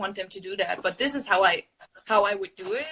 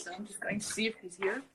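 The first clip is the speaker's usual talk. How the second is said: whispering; 6 dB quieter than usual. Real, not acted. Checking on cat quietly.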